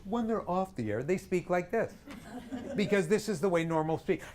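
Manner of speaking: comic closed-throat ordinary voice; off-air closed throat. Shown as a demonstration.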